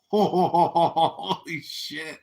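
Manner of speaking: slow, drawn-out holy shit; stunned disbelief. Retold or imitated. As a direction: let it stretch out in shock. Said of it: "I was like".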